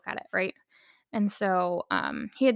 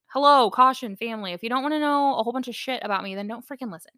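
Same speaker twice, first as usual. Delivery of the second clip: loud announcer-style opening, quickly rattled off; mock warning label announcement; 3 semitones higher, 4 dB louder, faster than usual. To her family who listen, a hammed-up warning announcement. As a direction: read it like a joking public warning. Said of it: "a warning label".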